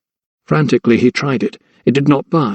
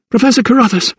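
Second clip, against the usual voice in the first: coughed cry; 10 semitones higher, faster than usual. A narrator's reading. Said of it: "she coughed".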